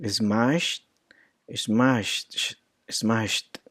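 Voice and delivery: "smashed" ending in a crisp T, smasht. Shown as a demonstration. Teacher demonstrating the T ending, "smashed" as smasht. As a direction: say "smashed" as one syllable closing on T. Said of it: "a T, a T sound".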